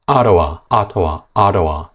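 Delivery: 아로와 with a strong first syllable; first syllable stressed. Shown as a demonstration. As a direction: punch the first syllable, weak rest. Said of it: "다 상관없습니다". (첫 음절을 강하게)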